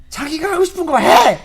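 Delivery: loud, high shout at the husband; wife shouting at the clingy retired husband, exasperated. Retold or imitated. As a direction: snap at him to go do his own thing.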